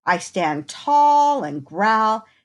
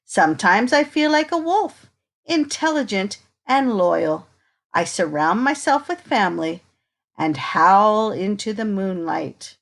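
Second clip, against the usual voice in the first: put-on reading to children. Reading picture book to children.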